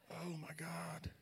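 high, breath-only aghast whisper; imitated hushed panic; dismayed whisper. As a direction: whisper it in helpless shock. Acts out helpless dismay.

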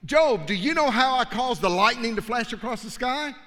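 mild playful God; teasing God. Acted. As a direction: quiz Job like a cheeky old friend. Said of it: "Things like".

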